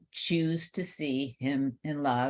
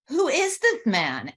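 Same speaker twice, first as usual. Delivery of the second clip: astonished thought; 10 semitones higher, 4 dB louder than usual. Retold or imitated. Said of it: "And I'm thinking".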